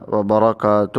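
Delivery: وبرکاتہ with its full ending, run into the next word; ending fully voiced. Shown as a demonstration. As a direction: read وبرکاتہ fully, joined to السلام. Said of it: "پورا پڑھے گا". (وبرکاتہ پورا پڑھیں)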